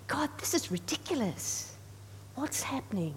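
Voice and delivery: quiet, exasperated inner plea; hushed frustrated prayer. Retold or imitated. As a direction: mutter it to God, half under breath.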